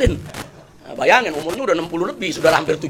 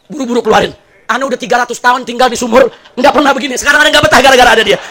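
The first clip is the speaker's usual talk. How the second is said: raised, loud comic protest; desperate complaint; 4 semitones higher, 6 dB louder, faster than usual. Acted. Jinn begs to escape the nagging wife, loud exasperation. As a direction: build to an exasperated mock shout.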